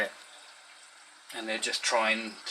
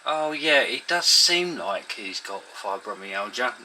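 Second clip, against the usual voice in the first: mock vague concession; 6 dB louder, slower than usual. Clinic doctor suddenly conceding the diagnosis, imitated as vague. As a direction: mimic a grudging, drawn-out admission. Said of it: "just trying to be extremely vague".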